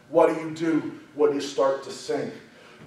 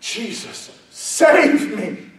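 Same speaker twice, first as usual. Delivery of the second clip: screaming; 4 semitones higher, much slower than usual. Acted. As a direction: build from a hushed call to a cry for help. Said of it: "And he is screaming".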